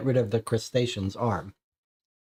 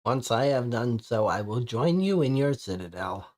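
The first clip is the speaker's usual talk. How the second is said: put-on old man voice. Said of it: "the old man voice".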